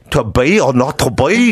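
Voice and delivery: Hamlet line in a hammed-up Scottish accent, slow; mock Scottish accent. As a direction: give it a jokey Scottish burr, drawn out. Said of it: "Do it, ... in your Scottish accent".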